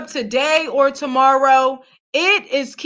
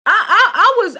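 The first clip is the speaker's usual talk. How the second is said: stammering through a laugh, louder; 4 semitones higher, 4 dB louder than usual. Real, not acted. Vlogger laughing at what a singer said. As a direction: laugh it out in disbelief.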